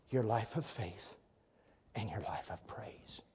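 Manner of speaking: breathy hush on the question; whispered. Acted. Preacher hushing the congregation, whispered. Hushed sermon climax.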